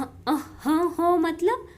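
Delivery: a light rising "हो" of amazement; surprised exclamation. Shown as a demonstration. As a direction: show the wonder of the exclamation mark, lightly. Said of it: "exclamatory sign दिया है कि हाँ क्या अचंभा".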